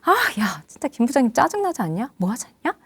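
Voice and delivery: hushed acted complaint; confidential venting. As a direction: grumble softly about the boss. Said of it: "친한 사이가 화끈이로 막 나와요".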